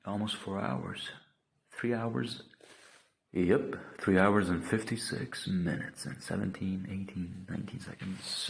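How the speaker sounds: loud, slow, proud time readout; excited announcement. Real, not acted. Streamer proudly tells viewers the session length, loud excited. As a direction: call out the clock like a triumph.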